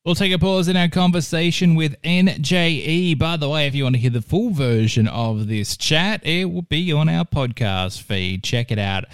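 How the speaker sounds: smooth, measured radio host link; radio presenter link. Acted. Host pausing the interview to introduce a track, radio presenter link. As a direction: announce it like a music show host.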